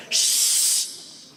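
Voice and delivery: long hushing shh; a sharp shushing sound. Shown as a demonstration. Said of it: "¿qué hay que hacer?".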